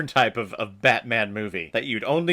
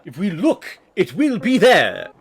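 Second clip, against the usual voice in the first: mimicking film character; 6 semitones higher, 7 dB louder than usual. Reactor mocking the angry manager, exaggerated loud mimicry. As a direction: parody his line, leaning hard on the ending.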